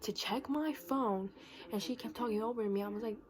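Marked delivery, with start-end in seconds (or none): 0.0-1.3 slow, insistent retold demand; in-her-face retort. Insisting the senior check her phone, in-her-face retort. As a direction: stretch the words out to press the point. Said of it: "I went in her face".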